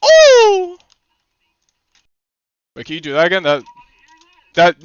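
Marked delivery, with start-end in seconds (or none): 0.0-0.8 high impressed ooh. Real, not acted. Reacting to play.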